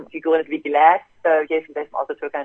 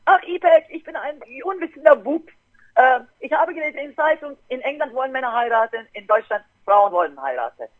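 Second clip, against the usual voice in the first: grandfather quoted; 5 semitones higher than usual. Retold or imitated. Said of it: "Mein Großvater sagt".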